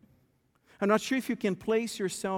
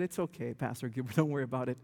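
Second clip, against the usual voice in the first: much lower and softer, easygoing; hushed reassurance; 8 semitones lower, 6 dB quieter, much faster than usual. Retold or imitated. Quoting Wesley calming the pastor, low and soft. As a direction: soothe him, low and soft. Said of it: "Wesley said".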